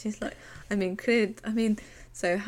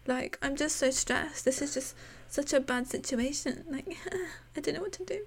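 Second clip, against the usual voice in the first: mock apology; 6 semitones higher than usual. Mocking Ali's fake apology.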